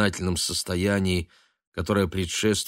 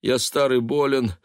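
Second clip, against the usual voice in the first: rising, louder self-pitying wail; wailing lament; 7 semitones higher, 3 dB louder than usual.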